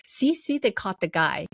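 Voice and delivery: retold excited vindication; happy vindication. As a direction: announce it to everyone, relieved. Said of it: "this old guy was really happy".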